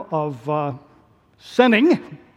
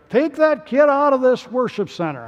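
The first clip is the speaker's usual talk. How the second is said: a touch of high-pitched irritation; stern pastor; 6 semitones higher than usual. Acted. Pastor ordering a crying child out of church, stern. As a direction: order it out like an annoyed preacher.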